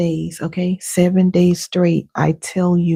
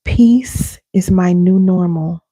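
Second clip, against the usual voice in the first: slow and louder, each word weighed; slow affirmation; 4 dB louder, slower than usual. Shown as a demonstration. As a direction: lead the room, slowly and firmly. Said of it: "Repeat after me".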